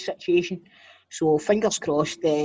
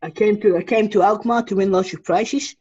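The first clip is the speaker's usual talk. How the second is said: mock Dutch accent; 3 semitones higher, 5 dB louder than usual. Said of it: "speaking in a Dutch accent".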